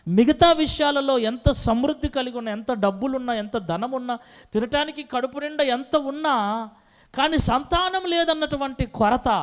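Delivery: lightly voiced, rising pleading prayer; pleading Hannah. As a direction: beg God for a son.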